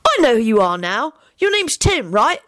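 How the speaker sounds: put-on high, perky child voice; eager boy. Alex works out who Timothy is, eager. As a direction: guess eagerly like a young boy.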